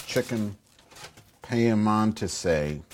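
"piemontese" drawn out slowly, syllable by syllable; unsure pronunciation. Real, not acted. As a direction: sound out "piemontese" carefully and doubtfully. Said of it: "I can't pronounce it".

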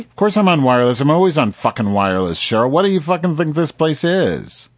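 snapping back, exasperated; fed up and cursing; irritated. Real, not acted. Angry about wireless question.

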